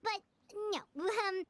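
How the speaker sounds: high, nervous laughing denial; flustered. Acted. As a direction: squeak out an innocent excuse. Paimon caught, flustered denial.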